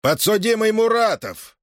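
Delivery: high, harsh summons; bark. A narrator's reading. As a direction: call the accused like a lash. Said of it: "рявкнул Шильников". (рявкнуть, высоко и резко)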